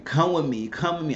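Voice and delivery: lightly voiced, repeated plea; retold begging. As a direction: act out a mother begging her son. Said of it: "she was begging Jeffrey".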